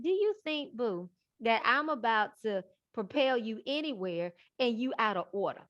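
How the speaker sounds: a lightly voiced scolding God; gently chide, teasing boo; God calling her out of order; voicing God. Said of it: "He was like".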